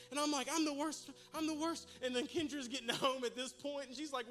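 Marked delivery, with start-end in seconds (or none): 0.5-1.9 high, loud self-reproach; mock despair. Father blames himself for son's behaviour, mock despair. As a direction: wail it in comic exasperation.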